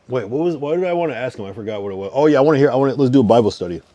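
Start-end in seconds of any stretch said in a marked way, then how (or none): 2.1-3.8 excited. Real, not acted. Excitedly asking for Bible study.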